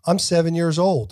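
badly faked British accent, pushed up; attempted British accent. Shown as a demonstration. Host trying British after the kid's, badly faked British accent. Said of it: "My British accent".

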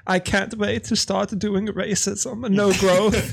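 hammed-up villain, giggling through it; Bond villain. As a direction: gloat like a cartoon supervillain. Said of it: "playing a Bond villain".

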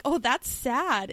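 slow, halting "Oh, that's sad"; slow processing quote. Retold or imitated. Friend imitating Cha Nu's slow reply in a second language. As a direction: say it slowly, like he's still translating. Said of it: "He's like".

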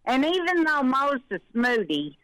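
slightly out of breath. Real, not acted. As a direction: talk winded after walking. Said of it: "I'm out of breath".

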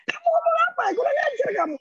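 high-pitched scolding grandma; outraged grandmother. Retold or imitated. The grandmother scolding the cheeky grandchild, high and outraged.

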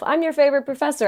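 self-assured and proud; confident. Real, not acted. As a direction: say it like you own it. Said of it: "you did it confidently this time".

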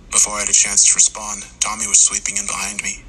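ordinary delivery

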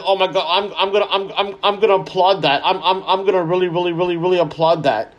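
sarcastic fake enthusiasm, a laugh in it; mocking gushing fan. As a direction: parody someone gushing over a small win.

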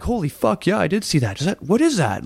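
high, astonished exclamation; shocked uncle. Retold or imitated. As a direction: uncle suddenly sees the light, astonished.

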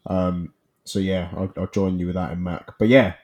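stuffy nose from a cold; nasal, blocked-up voice. Real, not acted. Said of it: "I sound a bit nasally at the moment".

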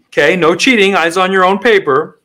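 a hint of a stern proctor; exam proctor. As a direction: warn the class like a proctor. Plays a professor during a quiz.

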